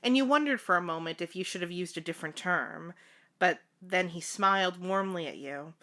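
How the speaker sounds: measured fanfiction read-aloud; story narration. A narrator's reading. Narrator telling the housekeeper's story, measured read-aloud. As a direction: narrate it evenly, like an audiobook.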